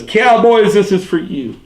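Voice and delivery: high shouted dedication before the jump; fanatic yell. Retold or imitated. Cowboys fan cries out as he jumps, high fanatic yell.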